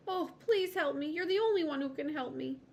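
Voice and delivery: high, loud pleading; a small lizard begging for help. A narrator's reading.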